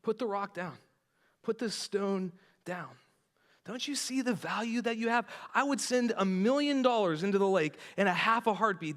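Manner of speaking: a hint of tender pleading; tender plea. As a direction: coax him to drop the stone. Jesus speaking tenderly to the man.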